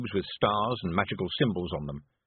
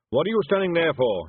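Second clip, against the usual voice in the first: loud, higher angry demand; 7 semitones higher, 6 dB louder than usual. A narrator's reading. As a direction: bark at the hired wizard. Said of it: "he demanded".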